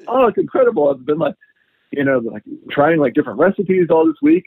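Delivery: a fan telling his farmer about recipes; excited. Retold or imitated. Customer raving to the farmer, mildly excited. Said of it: "he got so excited".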